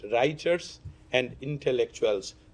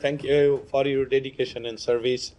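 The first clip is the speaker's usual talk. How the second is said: worn-out hoarse voice. Real, not acted. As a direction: speak through a lost voice. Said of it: "I lost my voice".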